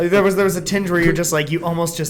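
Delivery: fast, loud, laughing through the words. Real, not acted. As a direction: crack up while teasing your friend. Friend laughing at the story.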